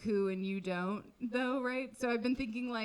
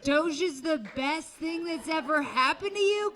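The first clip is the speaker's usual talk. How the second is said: higher, louder disbelief at husband's claim; incredulous repeat; 4 semitones higher, 3 dB louder than usual. Acted. Comic repeating husband's Doge line in outrage. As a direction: throw his words back in outrage.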